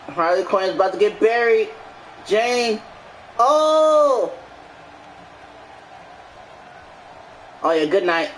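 lively ringside play-by-play; wrestling commentator. Acted. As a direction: call the match like a wrestling announcer. Streamer calls the match.

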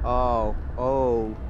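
sudden loud startled oh. Real, not acted. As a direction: caught off guard, blurt it. Startled by something in game.

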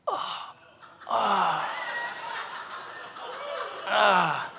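soft, drawn-out mock groan; playful winded "oh" and "ah"; wounded groan. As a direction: groan as if the remark landed hard. Acting hit by wife's remark.

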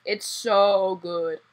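drawn out slowly, savoring. Real, not acted. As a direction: stretch it out, savoring the taste. Savouring, slow.

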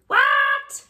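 high startled what; shocked. Real, not acted. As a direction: squeak out in disbelief. Shocked at what she read.

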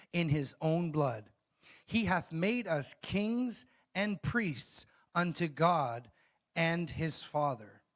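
slow, measured Bible reading; scripture reading. Acted. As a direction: read it out slowly, phrase by weighty phrase. Reads scripture aloud.

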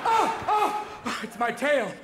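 very high, loud yelps; startled dog. Acted. Drugged sniffer dog discovering its tail, high yelping. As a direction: yelp it like a confused dog. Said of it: "They go back to their cage at the end of the day going".

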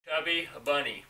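garbled through stuffed cheeks; mouth full. Real, not acted. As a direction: force it out around a mouthful. More marshmallows, garbled.

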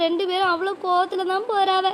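a mother close to crying; tearful. Acted. Worried mother to her neighbour about her daughter, tearful. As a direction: voice catching with a sob.

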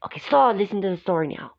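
sharp high stop to get attention; firm stop. Real, not acted. Calling the girls to order, firm stop. Adult stops children talking.

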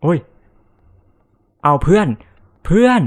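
high, loud yell for his friend; panicked shout. Real, not acted. Streamer shrieks at friend as monster strikes, panicked.

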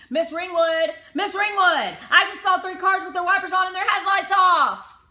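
high, loud urgent calling; child crying out from the bus seat. A narrator's reading. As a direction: call out to the driver, urgent and shocked. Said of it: "I would cry".

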